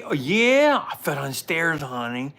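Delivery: cheery reply. Retold or imitated. Answering wife after falling.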